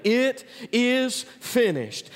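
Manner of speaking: very slow, hushed final words; solemn last words. Retold or imitated. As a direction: let each word fall slowly and solemnly. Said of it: "what did he say?".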